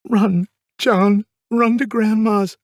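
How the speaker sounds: high, loud, frantic command; urgent shout. Retold or imitated. Mother shouting to son to flee, urgent high shout. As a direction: shout to get the child away fast. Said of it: "and shouted to me".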